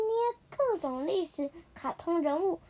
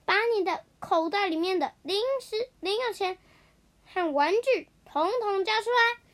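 higher mock copy of the bully's demand; mimicking the bully; 5 semitones higher than usual. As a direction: parrot the bully back in a higher voice. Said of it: "学着霸凌小子说".

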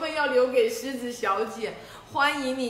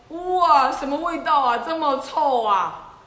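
loud, disgusted wrinkle-nosed cry; disgusted exclamation; 2 semitones higher, 7 dB louder than usual. Acted. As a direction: react to a terrible smell. Giraffe smells dung letter.

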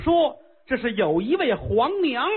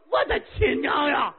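shocked cry; 4 semitones higher than usual. Acted. King shocked at her looks.

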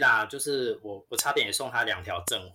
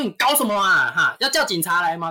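louder, higher mock rant; imitated angry scolding; 5 semitones higher, 7 dB louder than usual. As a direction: threaten like a furious shopper. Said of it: "然后就开始噼啪骂". (模仿顾客怒骂、大声又高)

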